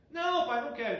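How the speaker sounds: a shouted, high "não, pai, não quero"; spoiled son shouts no at his father; loud refusal. Retold or imitated.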